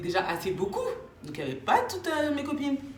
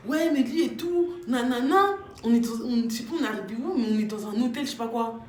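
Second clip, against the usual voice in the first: mock panic; 4 semitones higher than usual. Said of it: "elles étaient en panique".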